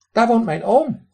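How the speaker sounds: high, loud duck voice with a raspy quack. Acted. Drake lectures the man who threw pebbles, high raspy quack. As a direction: play a cheeky drake scolding a stranger. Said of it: "kwaakte mijn eend".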